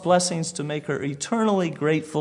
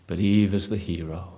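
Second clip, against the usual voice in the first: sarcastic mockery; 7 semitones lower than usual. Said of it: "false religions actually honor Eve".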